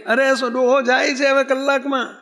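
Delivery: retold shouting. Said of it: "રાડ્યું પાડો છે".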